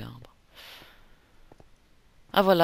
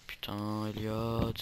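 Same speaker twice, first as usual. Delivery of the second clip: amis consternés; 4 semitones lower, 4 dB quieter, much slower than usual. Acted. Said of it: "ils sont en train de dire".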